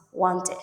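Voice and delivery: "wanted" as two syllables, ending id; teacher's model of "wanted" with id; extra id syllable. Shown as a demonstration. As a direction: say "wanted" like want-id. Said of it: "we pronounce it ed".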